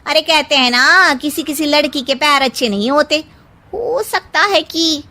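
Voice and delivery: high, loud, shocked gossip voice; whisper-gossip blame at full voice, shrill with disbelief; gossiping woman. A narrator's reading. Wedding guest blaming the bride, high and loud.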